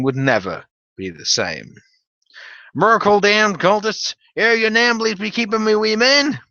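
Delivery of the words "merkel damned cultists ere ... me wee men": hammed-up Jeff Bridges growl. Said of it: "imagine all of his lines in that voice".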